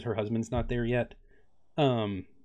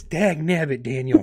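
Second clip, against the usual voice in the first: higher Southern grumble; mock southern exasperation; 4 semitones higher, 5 dB louder, slower than usual. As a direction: blow up in a hammed-up Southern drawl. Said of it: "That's my natural voice, y'all".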